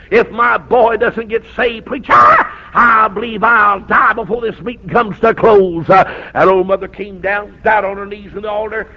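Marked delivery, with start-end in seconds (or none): 0.1-5.9 pleading cry. Retold or imitated. Pleading mother retold.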